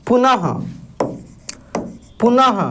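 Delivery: पुनः ending in a breathy h after the a; visarga ending. Shown as a demonstration. Teacher shows students the visarga, ending पुनः on a breathy ah. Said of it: "अह के जैसे".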